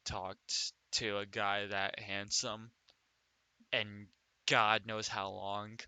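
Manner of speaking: low, slow and tender; soft smitten voice. Acted. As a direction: melt a little as she says it.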